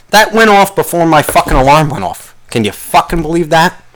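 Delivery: real irritation, punching the swear words; angry rant. Real, not acted. Podcaster ranting about the early phone alert, angry and worked up. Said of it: "I'm getting so angry".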